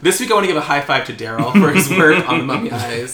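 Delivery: loud, hammed-up boss praising staff; mock shout-out. Podcast host mock-thanks the effects guy, loudly. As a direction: announce it like an office award, loud and proud.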